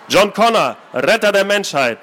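put-on boy gushing about his movie hero; enthusiastic. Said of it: "vor Begeisterung aufgesprungen".

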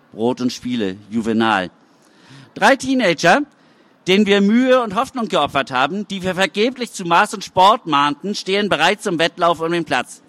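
mayor proclaiming to the festival crowd; mayor's speech. Acted. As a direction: address the crowd like a politician.

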